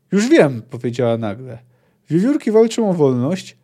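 lively read-aloud with voiced dialogue; story narration. Narrator reading dwarf and girl arguing, lively storytelling. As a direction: read the book scene aloud to viewers, voicing dwarf and girl. Reads a long book passage aloud.

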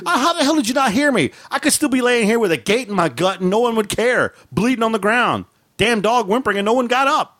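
injured man scolding his sleeping household, laughing; mock self-pity. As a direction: whine at a family that slept through it. Complaining to sleeping family.

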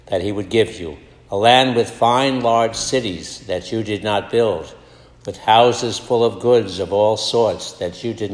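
measured, solemn proclamation of the reading; scripture reading. Acted. Priest at Mass reading Deuteronomy, solemn proclamation. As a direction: read it out to the congregation like a lector.

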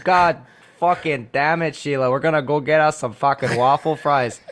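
put-on Maritimer accent. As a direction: lean into a laid-back Maritimer voice. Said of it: "interviewing a Maritimer".

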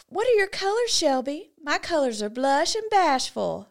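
a hint of a Southern belle; movie quote. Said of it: "I wanna say a quote from a movie".

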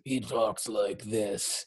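low, slow, cigarette-cured drawl; smoky old cowboy voice. Retold or imitated. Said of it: "his voice in this whole movie is horrible".

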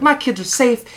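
high, sugary ad voice, hammed-up; mock commercial parent. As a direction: parody a sappy detergent ad. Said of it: "they're like".

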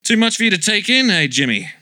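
mocking laugh, pitch way up; laughing taunt. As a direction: laugh at the sidekick.

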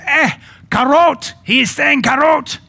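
high, loud, slowed mock cry of Eh, karot; imitating an excited lady in the front row; excited Nigerian lady. Preacher mimics the front-row lady's excited cry. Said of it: "the lady on the front row said".

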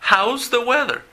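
high, loud teacher model; modelling for students to repeat; model phrase for repeating. Shown as a demonstration. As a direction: call it out bright and high for copying. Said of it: "La otra forma que es muy común".

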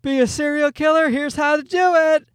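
put-on eager advice voice; parenting book voice. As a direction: pitch it like a chirpy self-help book. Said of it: "You know, the books".

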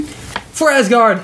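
high, slow heroic call; viking battle cry. Pretend. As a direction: sign off like a viking warrior. Mock battle cry sign-off.

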